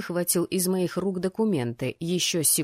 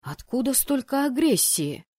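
higher-pitched questioning; higher, reproachful question; indignant challenge; 6 semitones higher than usual. Acted. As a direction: demand an explanation, voice pitched up. Heroine challenges the fiancé.

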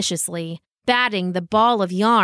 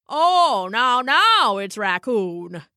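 haughty raccoon, drawn out on the correction; lightly voiced raccoon; much slower than usual. Raccoon correcting the dog who insulted him, lightly affronted. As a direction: play a put-out raccoon, stretching the words.

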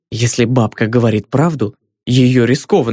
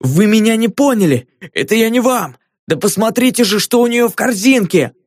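higher, pleading cry; desperate cry; 8 semitones higher than usual. A narrator's reading. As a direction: beg them to look, in despair. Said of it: "в отчаянии закричал привратник".

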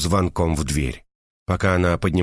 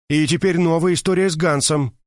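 a touch of outrage, higher; indignant; 9 semitones higher than usual. A narrator's reading. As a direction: launch into the next grievance. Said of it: "продолжила возмущаться Мерседес". (Мерседес возмущённо продолжает рассказ)

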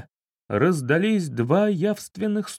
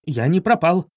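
cheerful; 3 semitones higher, 3 dB louder than usual. Acted. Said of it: "раздался весёлый голос".

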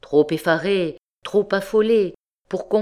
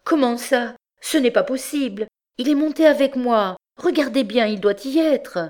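high, alarmed wife's voice; higher-pitched, frightened disbelief; terrified protest; 7 semitones higher than usual. A narrator's reading. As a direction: protest in rising panic. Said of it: "Elle eut un geste de terreur".

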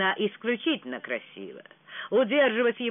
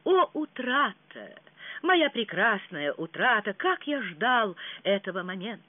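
prince in rapture; 3 semitones higher than usual. Acted. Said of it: "сказал принц".

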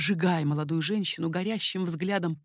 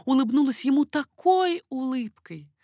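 ordinary delivery

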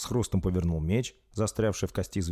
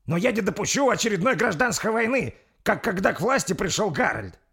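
loud, high, insistent protest; firm heated objection; 13 semitones higher, 5 dB louder than usual. Acted. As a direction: put your foot down loudly. Спор о гражданской войне. (громко и непреклонно)

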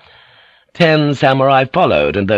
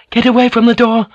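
very high, loud warning shout; 13 semitones higher, 5 dB louder than usual. Acted. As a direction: shout them away from the door. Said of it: "Mariko shouted".

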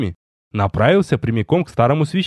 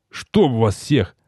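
grumble; much slower than usual. Acted. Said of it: "пробурчал я".

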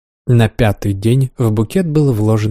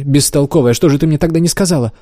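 playful scolding; 4 semitones higher than usual. Acted. Florence scolds the maid.

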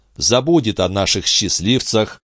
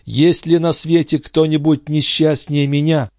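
put-on a young woman's higher voice in despair; grieving heroine, raised and higher; Andrée's anguished voice; 10 semitones higher than usual. A narrator's reading. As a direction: lament it, lifted and pleading.

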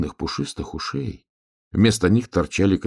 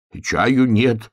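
slow, raised exclamation; mild shout; 5 semitones higher, 4 dB louder, much slower than usual. A narrator's reading. Bear cub refusing tea to the visitor, mild shout. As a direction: cry out a refusal, drawn out. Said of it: "крикнул медвежонок".

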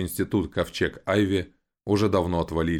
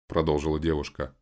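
ordinary delivery, nothing marked

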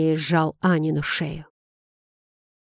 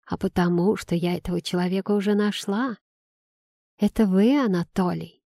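squeaky mimicking voice. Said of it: "передразнивая Аню, произнёс он писклявым голосом".

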